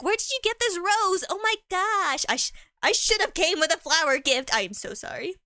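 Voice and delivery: high, lightly voiced flustered partner; a touch of a gushing, apologetic girlfriend; surprised partner. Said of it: "your significant other's like".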